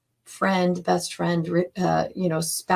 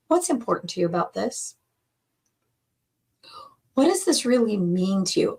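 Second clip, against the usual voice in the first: kindness and curiosity; faster than usual. Shown as a demonstration. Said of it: "asking with true curiosity and true kindness".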